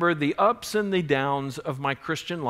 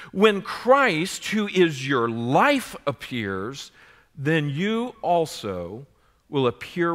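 emphatic scripture reading; 4 dB louder, slower than usual. Acted. Preacher reading the next verse to the congregation, emphatic and measured. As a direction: proclaim the verse phrase by phrase, slowly.

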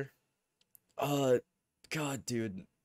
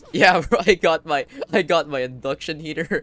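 excited bragging; 5 semitones higher, 11 dB louder than usual. Real, not acted. Excited listing of his gear.

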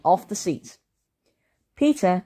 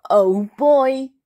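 much higher, louder delighted cry; excited Henry; 8 semitones higher, 6 dB louder than usual. A narrator's reading. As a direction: gush like a kid who can't wait. Henry thrilled by camping.

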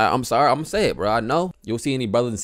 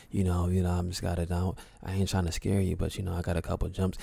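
mocking a flat, softer narrator voice; mock monotone narrator; 4 semitones lower, 7 dB quieter than usual. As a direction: parody the creepy video's dull narrator. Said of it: "you know, all monotone".

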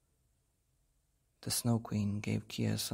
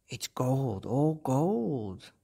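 robbers shouting; 3 semitones higher, 4 dB louder, much slower than usual. A narrator's reading. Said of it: "they shouted".

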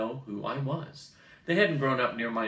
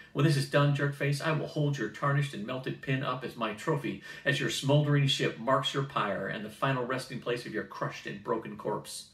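over-the-top threat; 2 semitones higher than usual. Acted. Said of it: "my reaction had been over the top".

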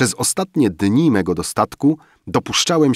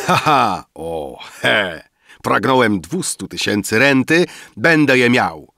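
raised, loud laugh into boasting; exultant exclamations; 4 semitones higher, 3 dB louder than usual. A narrator's reading. Rafael boasting to sleeping guests, exultant exclamations. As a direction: crow in drunken triumph. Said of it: "Wykrzykniki Rafaela".

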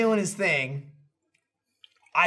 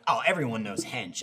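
Gavin impression; 11 semitones lower, 6 dB quieter than usual. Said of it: "acted like the Gavin thing".

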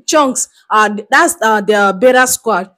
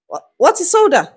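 lightly voiced, baffled old shopkeeper, higher pitched; puzzled old woman; 5 semitones higher than usual. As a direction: ask as a mildly bewildered old woman. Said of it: "like maybe an old woman".

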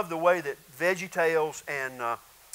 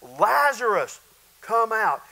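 higher, louder, slow call of the name; retold shout, firm and measured; loud commanding yell; 4 semitones higher, 5 dB louder, slower than usual. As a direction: summon him with a raised voice. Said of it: "He yells in a loud voice".

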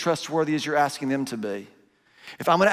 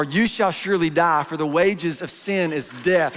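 mock biblical warning; slower than usual. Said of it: "You start getting theological on 'em".

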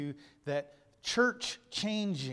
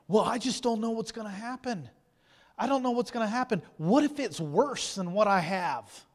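higher, anxious mock worry; voicing the fearful lie; 6 semitones higher, 5 dB louder than usual. Preacher voicing the congregation's fearful doubts, mock worried. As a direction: act out the nagging fear of change. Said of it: "the next lie of the fear of the unknown".

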